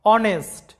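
অনেস্ট begins on a plain vowel, "on-est"; অনেস্ট said with no h at the start; silent h. Shown as a demonstration. Teacher shows the class অনেস্ট with a silent h. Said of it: "এইচ এর উচ্চারণটা silent আছে".

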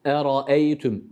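Eraeytüm with the ra read as e, not a; eraeytüm, thin e after r; correct recitation. Shown as a demonstration. Tutor models the correct Quranic reading. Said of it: "araeytüm değil".

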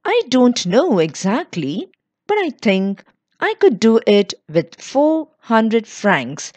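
unsure, halting reply; a hint of nervous hesitation; hesitant. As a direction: ask tentatively, testing the amount. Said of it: "she answered hesitantly".

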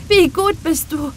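put-on boy thanking God for the rain, overjoyed; joyful. A narrator's reading. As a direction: keep the joy bubbling through the prayer. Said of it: "rief er freudig".

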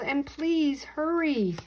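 high, loud, drawn-out plea; yell. A narrator's reading. Boy urging the firemen on, yelling. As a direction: stretch it out in a loud urgent call. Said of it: "I yelled".

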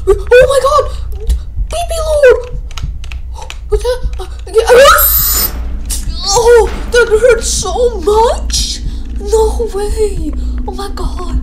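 high, loud, half laughing half crying; laugh-cry through the scare; laughing in panic. Real, not acted. Gamer laugh-crying to viewers at the elevator.

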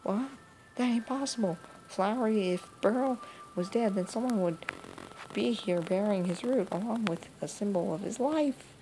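lightly voiced old woman, disbelieving; a hint of a granny refusing the news; shocked granny. Granny hearing her grandson died, mild disbelief.

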